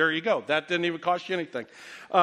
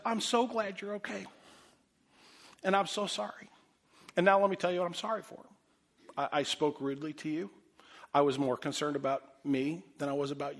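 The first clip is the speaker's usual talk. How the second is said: softer, sincere apology; 5 dB quieter than usual. Retold or imitated. Husband apologizing to his wife on the phone, soft and sincere. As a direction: apologize gently and mean it.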